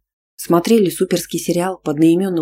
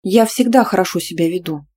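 innocent; 3 dB louder than usual. Acted. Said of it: "невинно заметила я".

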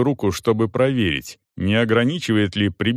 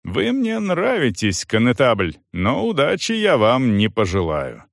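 shouting. Acted. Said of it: "кричал".

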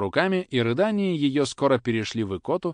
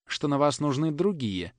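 ordinary delivery, nothing marked

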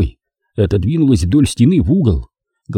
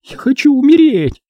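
high, broken wish to die; despairing. Acted. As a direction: say it as if nothing is left. Naomi despairing.

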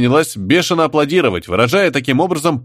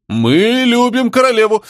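higher, slower hurried cheer; crowd shout; 11 semitones higher, 3 dB louder than usual. Acted. Frightened crowd cheering for the queen, shouting. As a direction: shout loyalty to save your skin. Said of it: "закричал опомнившийся народ".

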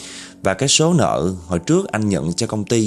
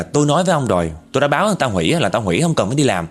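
fast, cocky talking-back; rude harsh retort; 4 semitones higher, much faster than usual. Retold or imitated. Rude man snapping back fast at his brother-in-law on the phone. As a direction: rattle it off rudely, brushing him aside. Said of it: "giọng điệu hỗn mà nó gay gắt dữ lắm".

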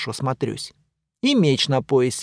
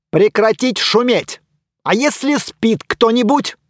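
loud, higher scolding of a noisy neighbour; scolding shout; 7 semitones higher, 4 dB louder than usual. Acted. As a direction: tell him off for the racket. Hero scolds noisy knight.

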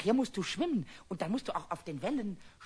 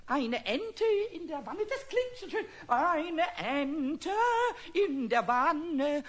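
improvised rhyme; 3 semitones higher, slower than usual. Acted. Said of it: "ob mir noch ein kleines Entenwannengedicht einfällt".

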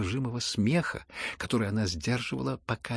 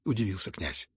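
ordinary delivery

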